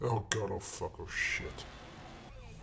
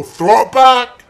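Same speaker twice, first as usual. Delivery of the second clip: high squeal; 8 semitones higher, 15 dB louder, much slower than usual. Acted. Gamer blurting a silly high squeal at a crash. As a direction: Throw it back shrieked high, loud and slow. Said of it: "why did I say that?".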